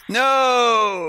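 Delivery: sudden high shocked cry; horrified no. Real, not acted. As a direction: gasp out no in protest. Objects to ergative English.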